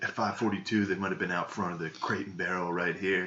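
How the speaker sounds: mildly hammed-up detective recall; understated mock detective; mock Wahlberg. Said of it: "He's like".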